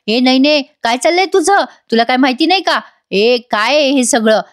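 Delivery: a hammed-up telling-off from an angry mother; mock shouting. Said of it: "ओरडतात आणि म्हणतात". (उंच आवाजात खोटं खोटं ओरडणं)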